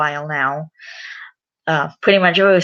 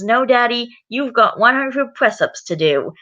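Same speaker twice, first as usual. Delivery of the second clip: mildly bossy, higher-pitched Peppa; bossy child; 6 semitones higher than usual. Acted. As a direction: lightly voice a child putting Daddy in his place. Peppa refuses, orders Daddy back.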